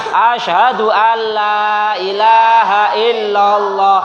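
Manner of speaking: slow, sustained Arabic chant; leading recitation. Shown as a demonstration. Teacher cueing pupils where to continue, slow chant. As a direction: chant it evenly with long vowels.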